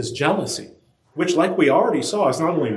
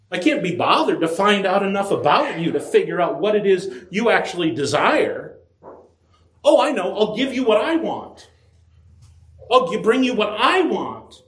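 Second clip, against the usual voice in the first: higher, offhand and self-satisfied; selfish spouse; 5 semitones higher than usual. Retold or imitated. Preacher voices a spouse who won't bother learning what the partner wants. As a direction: sound pleased with your own idea.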